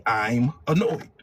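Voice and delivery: annoyed. Shown as a demonstration. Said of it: "You say".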